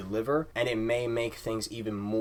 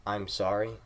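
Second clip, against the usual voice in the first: plain, even-voiced honest apology; sincere. Shown as a demonstration. Speaker showing viewers a genuine apology, sincere. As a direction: say it simply, like you mean it. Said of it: "in a very sincere voice".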